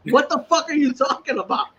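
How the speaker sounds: high retold disbelief through laughter; crying with laughter. High friend answers the sober one, crying with laughter. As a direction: squeak it out while cracking up.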